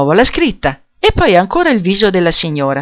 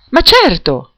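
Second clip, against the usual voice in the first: bright, higher encouraging reassurance; encouraging friend; 6 semitones higher, slower than usual. A narrator's reading. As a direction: lift her up with a quick yes. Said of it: "con fare incoraggiante".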